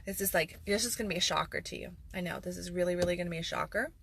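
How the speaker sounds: mock-amazed, fake suspense; sarcastic. Real, not acted. Host sarcastically hyping an obvious answer to viewers. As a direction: oversell how shocking it will be. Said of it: "that was me being sarcastic".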